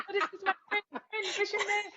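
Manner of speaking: high, playful imitation of mom's Asian accent. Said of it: "Then my mom had the Asian accent".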